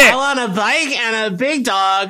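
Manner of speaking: lightly voiced greedy kid; eager boy Peter. Boy listing Christmas wishes to his nanny, eager kid voice. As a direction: rattle off a wish list like a kid.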